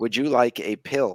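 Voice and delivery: acted robotic voice. Retelling a movie scene with an ai parole officer: imitating an ai parole officer. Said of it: "it's an A I, and he goes".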